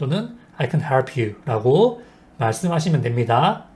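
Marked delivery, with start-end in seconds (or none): 0.6-1.4 "help" stressed, "can" light and slow. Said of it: "can은 약하게, help는 세게".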